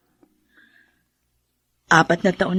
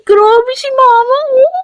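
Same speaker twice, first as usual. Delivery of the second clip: higher and louder, mock offended; playful protest; 5 dB louder than usual. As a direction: laughingly protest to your mother. Daughter protests teasing question. (pabirong pagtutol, mas mataas at malakas)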